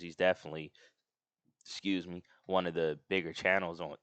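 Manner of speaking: talking through hiccups; words broken by hiccups. Real, not acted. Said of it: "got the hiccups".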